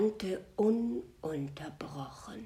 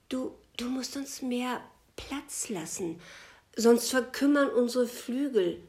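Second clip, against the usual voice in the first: higher, pleading call that swells louder; birds calling out; 7 semitones higher, 6 dB louder than usual. Acted. The birds beg the sky for space, calling out higher. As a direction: cry out for more room. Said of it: "riefen die Vögel".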